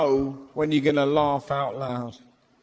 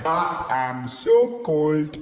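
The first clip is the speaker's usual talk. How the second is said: lion's voice; slower than usual. Pretend. Lion voicing to the crowd, slow and grumpy. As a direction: drag it out like a freezing lion. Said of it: "What voice would he have?".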